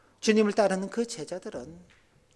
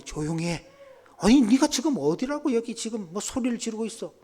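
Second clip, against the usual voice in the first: mock scolding, rising higher after the hush; 3 semitones higher than usual. Crowd to shouting beggar, mildly scolding. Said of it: "그렇게 말리는 거죠".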